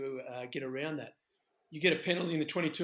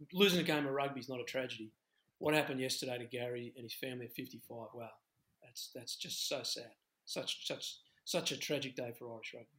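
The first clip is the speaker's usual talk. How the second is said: quiet sorrow; 2 semitones lower, 4 dB quieter than usual. Real, not acted. Grieving a friend's sudden death.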